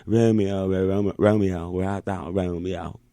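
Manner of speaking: Shakespeare in a Georgia drawl; put-on Southern Shakespearean accent. Shown as a demonstration. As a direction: play Romeo and Juliet in a Georgia accent. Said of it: "Georgian accent is the closest thing to the Shakespearean".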